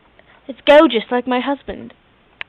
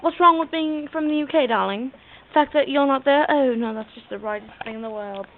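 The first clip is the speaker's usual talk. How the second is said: hammed-up British "darling" voice; British-accented character voice; put-on British accent. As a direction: play a British diva with an accent. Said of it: "talk like a freaking U K".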